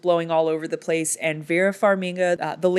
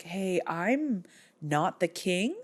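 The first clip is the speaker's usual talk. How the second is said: mumbled protest; 7 dB quieter, slower than usual. Retold or imitated. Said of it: "he's like".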